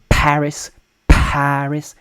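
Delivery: Paris as P-HA-ris; hard English P. Shown as a demonstration. Teacher extends the rule to P, aspirated P in Paris. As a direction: puff air after the P of Paris. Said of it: "The same is true with the P".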